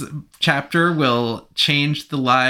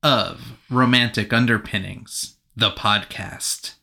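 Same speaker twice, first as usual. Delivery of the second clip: movie trailer voice; 3 semitones lower than usual. Shown as a demonstration. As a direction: announce it like an epic film. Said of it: "Why did your voice get so much lower?".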